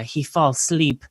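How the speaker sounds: imitated Eastern European broken English; mock Eastern European woman relaying a message; Eastern European accent. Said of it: "her sister is, like, telling my best friend".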